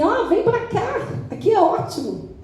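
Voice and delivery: high, laughing mock-friendly invite; mock welcoming guard. Preacher mocking a jail guard's cheerful invitation. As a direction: play a jailer cheerfully luring inmates. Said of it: "o policial penal fica assim".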